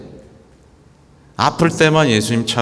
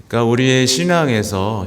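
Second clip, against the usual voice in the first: ordinary delivery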